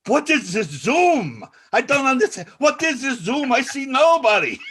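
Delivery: hammed-up confused old woman; baffled yelling. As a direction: holler like an elder lost on a video call. Retold woman baffled by Zoom.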